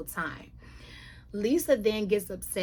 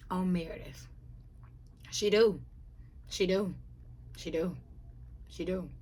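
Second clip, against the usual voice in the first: whispered reveal. Real, not acted. Host whispering the big secret about Meredith.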